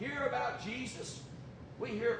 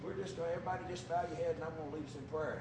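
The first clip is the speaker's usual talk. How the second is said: mocking fancy preacher; 7 semitones lower, 7 dB quieter, much faster than usual. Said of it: "fancy Dan preachers".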